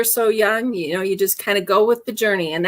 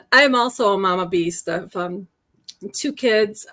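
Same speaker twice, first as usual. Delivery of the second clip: choking. Real, not acted. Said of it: "sorry, I'm choking".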